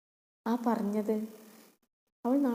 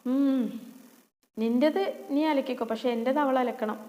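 spiteful retort; 2 semitones higher, 3 dB louder than usual. Acted.

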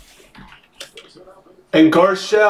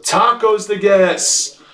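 normal talking voice

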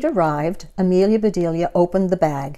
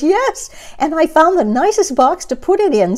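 proud; 10 semitones higher, 5 dB louder than usual. Acted. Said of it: "said Amelia Bedelia".

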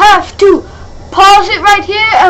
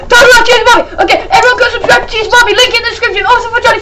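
hyped shout-out; 4 semitones higher, much faster than usual. Real, not acted.

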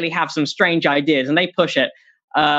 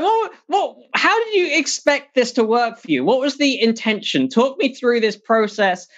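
mock baffled outrage; 4 semitones higher than usual. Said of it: "People were like".

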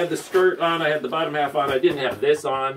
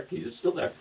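whispered check; 4 semitones higher, 8 dB quieter than usual. Retold or imitated. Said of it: "I stick my finger up there and go".

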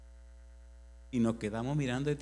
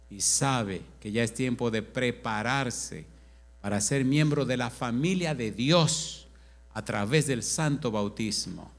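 slow, louder preaching appeal; altar call; 3 dB louder, slower than usual. Acted. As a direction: draw them forward slowly and earnestly.

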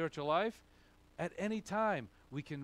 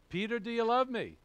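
questioning Jesus to Peter; 8 semitones higher, 6 dB louder than usual. Acted.

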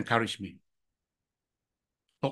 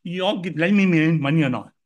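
higher, dismissive Singlish grumble; impatient inner retort; 4 semitones higher than usual. Retold or imitated. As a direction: brush off the board, then demand the money. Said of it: "Then in my mind, the first thing I say".

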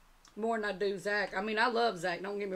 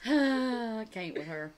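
laughing; much slower than usual. Real, not acted. Overcome by laughter at friend.

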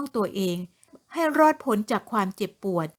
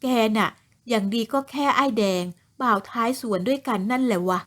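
snide taunt. Acted. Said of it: "จะรวยกระแนะกระแหนใส่".

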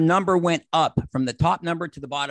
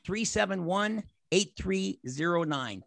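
slow dictation; 5 semitones higher, slower than usual. Shown as a demonstration. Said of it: "write this phone number down".

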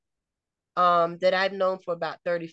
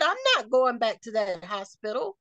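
retold indignant refusal; 3 semitones higher than usual. Patient retelling her refusal to return to the hospital, indignant. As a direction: imitate your own outraged refusal, pitched up at first.

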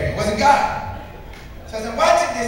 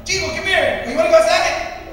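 calling the dog; 6 semitones higher than usual. Retold or imitated.

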